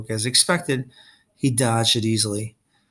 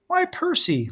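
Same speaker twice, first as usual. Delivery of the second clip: mocking greeting; slower than usual. A narrator's reading. Luke greets captive Percy mockingly.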